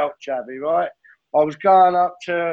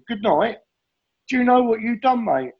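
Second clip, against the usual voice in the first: pitched well up, mock disbelief; incredulous pals; 7 semitones higher than usual. Pals on the phone the next day, mock incredulous. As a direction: retell the mates' what-are-you-on reaction.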